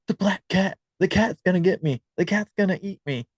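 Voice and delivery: high frightened little voice; scared child. Retold or imitated. Half-asleep daughter telling mom about a cat, scared. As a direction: plead like a small child who sees a monster.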